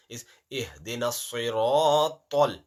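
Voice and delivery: siratal with a thick, heavy s and a dark a. Shown as a demonstration. Teacher giving the heavy sound of siratal. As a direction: darken the s in siratal. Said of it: "This is not seen".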